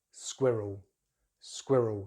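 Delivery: squirrel, skwi as in squid, rul as in rural; British pronunciation. Shown as a demonstration. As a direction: say squirrel in two syllables, SKWIH-rul. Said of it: "the squir as in squid".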